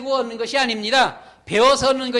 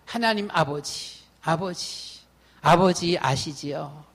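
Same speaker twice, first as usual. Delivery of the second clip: tender prayer; 6 semitones lower, slower than usual. Retold or imitated. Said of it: "그랬습니다".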